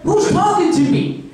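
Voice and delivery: high-pitched mock bewilderment; startled Eve. Eve hearing a voice from the bushes, startled and high.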